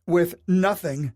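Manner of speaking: wife crying out over losing everything. A narrator's reading. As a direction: wail it in despair. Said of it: "she cried".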